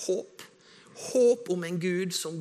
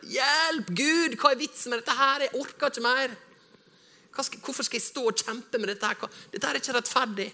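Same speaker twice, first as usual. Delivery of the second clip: much higher, louder anguished plea; desperate cry to God; 10 semitones higher, 3 dB louder than usual. Retold or imitated. Believer in crisis cries out to God, anguished.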